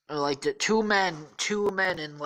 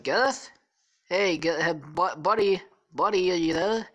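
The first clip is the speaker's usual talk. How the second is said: calling out; 4 semitones higher, 4 dB louder than usual. Acted. Calling at a friend's door.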